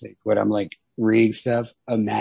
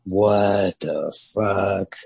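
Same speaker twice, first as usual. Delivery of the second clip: baffled; 3 semitones lower, much slower than usual. Retold or imitated. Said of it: "being like".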